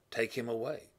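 crowd crying out. Retold or imitated. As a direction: call it out like an angry mob. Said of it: "So they cried out".

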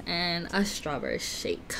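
hushed whisper. Real, not acted. Excited whispered food listing.

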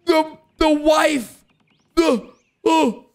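sudden alarm as the wife floats away; shocked outcry. Real, not acted. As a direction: blurt it in disbelief.

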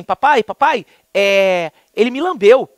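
imitating his little daughter. Daughter's babbling voiced by dad.

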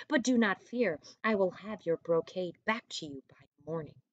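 put-on reading aloud to children; storyteller voice for young kids; story narration. A narrator's reading. Teacher reads story to class.

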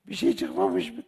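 high, slow, breathless whisper; imitating a stunned mother; horrified whisper. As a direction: whisper it in disbelief as if the world ended. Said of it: "Anam böyle yaptı".

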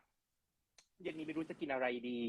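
a hint of a sulking girlfriend; mock sulky partner. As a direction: play the pouting partner, slowly. Host acts sulking partner.

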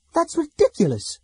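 a sharp, high, loud snap; snapped. A narrator's reading. Laurana snaps at the elves' blame, loud and high. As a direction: bite off the words in scorn. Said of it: "Laurana snapped".

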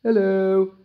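high creaky greeting; old man voice. Acted. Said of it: "little old man".

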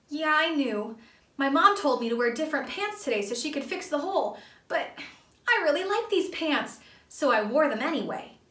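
put-on high, sheepish kid voice; small boy confessing, high and a bit loud; Percy the kid. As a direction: sound like a boy owning up to a mistake. Percy's character voice.

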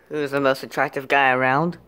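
smoother retake. Acted. Retake of the attractive guy question, smooth low delivery. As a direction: ask it smooth and a little low.

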